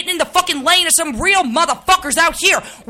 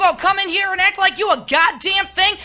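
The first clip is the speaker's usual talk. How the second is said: angry rant; 2 semitones higher than usual. Acted. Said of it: "This is a real live snap".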